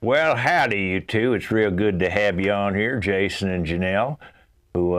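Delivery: hammed-up southern howdy host; country accent. Host in disguise greeting the couple, in a southern accent. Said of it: "now I'm gonna do a little accent like this".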